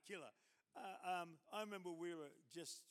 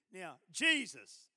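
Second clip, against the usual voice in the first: loud, slow coaching; 12 dB louder, much slower than usual. Retold or imitated. Preacher coaching a reluctant nurse, loud and slow. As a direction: say JESUS loud and drawn out.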